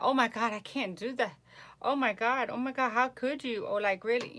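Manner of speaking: shocked out-of-towner. Retold or imitated. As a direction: ham up a panicking visitor. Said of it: "be like".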